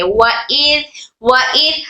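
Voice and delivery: व इर with the hamza clearly sounded; separate hamza. Shown as a demonstration. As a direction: sound the hamza of इर on its own after व. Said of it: "हमजा के साथ अदा करेंगे".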